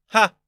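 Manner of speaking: explosive laugh. Acted. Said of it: "a rare single explosive laugh".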